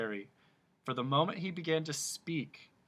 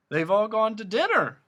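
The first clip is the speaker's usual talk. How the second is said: weak humbug; 9 semitones higher, 9 dB louder than usual. A narrator's reading. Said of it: "announced the humbug weakly".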